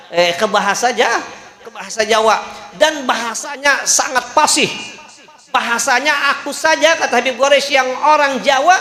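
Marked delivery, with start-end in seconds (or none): 0.1-2.4 chuckling while repeating the punchline; laughing through the words. Real, not acted. Preacher to congregation, repeating the punchline while laughing. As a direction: let a laugh break through the phrase.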